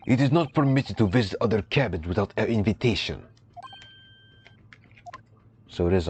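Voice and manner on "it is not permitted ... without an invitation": a hint of a gruff Russian accent; proud sailor, lightly put-on Russian accent; mild mock Russian sailor, slightly louder; lightly voiced Russian sailor.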